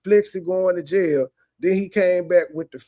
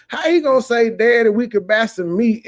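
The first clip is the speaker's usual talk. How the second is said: incredulous mockery; 4 semitones higher, 4 dB louder than usual. Real, not acted. Mocking the son's reply.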